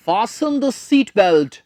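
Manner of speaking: very slow, every word spaced out; slow dictation. Shown as a demonstration. Teacher dictating a phrase to students, very slow. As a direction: spell it out slowly for the class. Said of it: "एफ ए एस टी ई एन".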